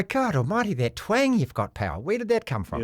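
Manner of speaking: mock Scottish mates. Host imitating Scottish mates mocking his twang, in a light Scottish accent. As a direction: tease him in a hint of Scottish. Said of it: "did they mock your accent".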